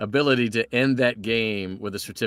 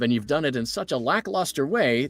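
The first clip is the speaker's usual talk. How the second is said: lightly raised mock-formal announcer read; game certificate reading; 4 semitones higher than usual. Host reads the game's mocking certificate in a mock-formal voice. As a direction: read it like a smug corporate award. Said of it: "the Pizzeria Simulator".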